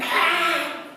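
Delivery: short sharp cry of pain; yelp of pain. A narrator's reading. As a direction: cry out as you slip and fall. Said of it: "and yelled".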